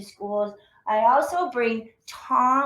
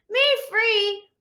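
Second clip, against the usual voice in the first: much higher, squeaky little puppy; tiny puppy voice; 9 semitones higher than usual. Acted. Littlest dog chiming in, tiny higher puppy voice. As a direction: play the smallest puppy.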